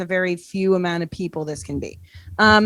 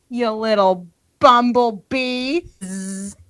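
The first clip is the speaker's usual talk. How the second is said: impersonated celebrity. Retold or imitated. Reading Cameo message in voice.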